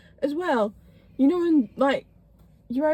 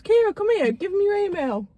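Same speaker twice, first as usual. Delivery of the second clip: put-on raised-pitch mum calling her child over; imitated mum; 6 semitones higher than usual. Mum to daughter while paying, imitated summons. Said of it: "what's worse is my mum".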